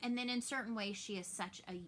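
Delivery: normal talking voice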